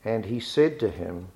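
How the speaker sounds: measured, solemn Bible reading; scripture reading. Acted. Reads scripture passage aloud.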